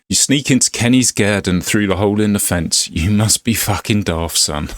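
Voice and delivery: lightly hammed Glaswegian Scottish accent. Telling off an intruder, Scottish accent. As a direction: put on a rough-and-ready Glasgow Scottish accent. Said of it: "Sorry about the Scottish accent".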